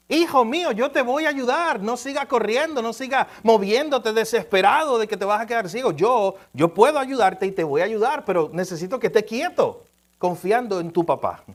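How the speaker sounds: urgent, earnest plea from a father; pleading father. Retold or imitated. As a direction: beg him to hold still and trust. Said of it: "el papá le estaba diciendo".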